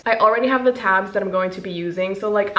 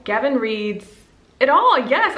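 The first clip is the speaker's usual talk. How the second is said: triumphant; 4 semitones higher than usual. Real, not acted. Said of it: "Oh my God, I was so correct".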